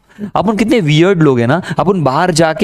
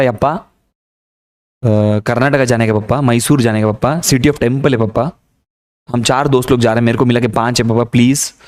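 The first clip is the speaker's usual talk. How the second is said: lightly hammed begging child; pleading son; 4 semitones lower than usual. (पापा से पैसे माँगता, मिन्नत करता बेटा)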